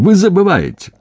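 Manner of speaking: high, sharp rebuke; angry retort. A narrator's reading. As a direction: throw it back at him sharply. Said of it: "рявкнул Замятин". (резкий упрёк)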